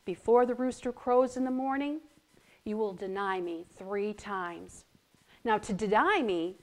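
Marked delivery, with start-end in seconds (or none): 0.0-4.8 soft, sweet and gentle; softer, tender warning to a friend. Acted. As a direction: tell him kindly, softly. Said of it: "said in a very sweet voice to Peter".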